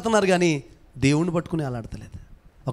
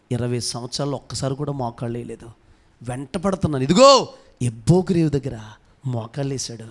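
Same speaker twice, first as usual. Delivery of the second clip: a hint of a gentle, long-suffering God; voicing God; 5 semitones lower than usual. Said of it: "దేవుడు అన్నాడంట".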